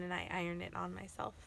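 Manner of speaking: whispered confiding aside. Real, not acted. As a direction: whisper it like a secret. Confiding aside about being cheap.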